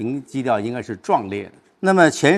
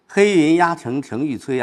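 higher-pitched recitation with impact; forceful opening; 4 semitones higher, 4 dB louder than usual. Shown as a demonstration. Teacher showing a student the oppressive opening line, forceful recitation. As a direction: open on a big, forceful scene. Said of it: "上来就一个很大的场面".

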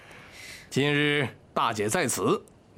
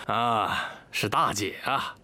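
usual speaking voice

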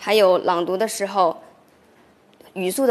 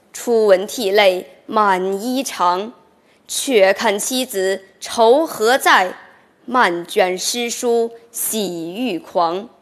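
slow, measured classical reading, slightly louder; full poem recitation; 3 dB louder, slower than usual. Shown as a demonstration. Student reciting the whole Du Fu poem for the professor, slow measured reading. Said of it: "你试一下".

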